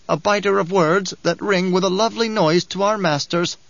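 a touch of giggling delight from the dwarf; giggly sly dwarf. Acted. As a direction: thank him with giggly glee. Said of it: "Bejas giggled".

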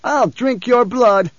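high, loud, slow threat; raving curse. A narrator's reading. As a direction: draw out a deranged curse. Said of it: "Hideous curses erupted from her".

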